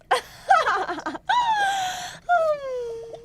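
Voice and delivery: high, wild witch cackle; high cackle of a gleeful witch. Acted. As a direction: cackle with evil glee. Witch gloats over virgin's blood.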